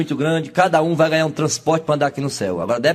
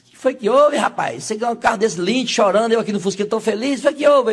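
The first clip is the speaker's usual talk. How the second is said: puzzled asking; 7 semitones higher than usual. Acted. Man asking why the other cries.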